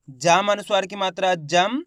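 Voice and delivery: slow drill ending in a hummed m on "जम"; half m spelling demonstration. Shown as a demonstration. Teacher showing where half m sounds, slow spelling demonstration. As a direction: spell it slowly, rising onto "जम" with closed lips. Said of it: "यहाँ पे आधा माँ का उच्चारण".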